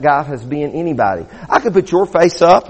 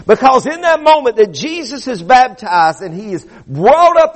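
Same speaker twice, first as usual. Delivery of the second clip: emphatic, measured sermon delivery; preaching; 4 semitones higher than usual. Acted. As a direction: preach it firmly to the congregation. Preaches to a congregation.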